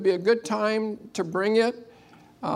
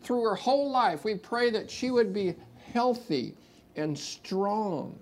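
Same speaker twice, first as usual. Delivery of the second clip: prayer. Acted. Prays over Kaylee.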